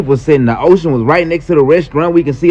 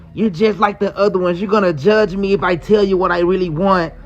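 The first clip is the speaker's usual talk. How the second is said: mock crying; 4 dB quieter than usual. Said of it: "She started crying and say".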